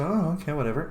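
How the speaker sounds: quiet, offhand shrug of a line; bored dismissal. Retold or imitated. Tavern crowd shrugging at the party, quiet and offhand. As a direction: brush the newcomers off, unimpressed. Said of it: "just go".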